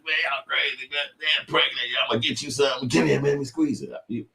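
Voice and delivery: high, exaggerated creepy voice; mocking impression. Mocking the man's talk to a kid, high and exaggerated. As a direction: ham up a leering creep, high and loud. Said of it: "I'm like".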